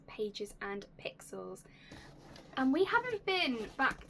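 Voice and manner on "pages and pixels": tagline whisper. Acted. Channel tagline sign-off whisper.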